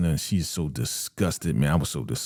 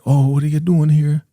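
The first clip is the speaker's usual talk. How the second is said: high, loud startled question; mock surprise; 11 semitones higher, 8 dB louder than usual. Elder Mother finding Manny in her kitchen, mock surprised. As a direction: exclaim it as an acted surprise.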